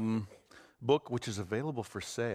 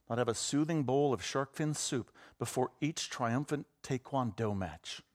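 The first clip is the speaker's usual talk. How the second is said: propaganda announcer. Acted. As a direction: proclaim it like a loudspeaker announcer. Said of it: "the propaganda voice".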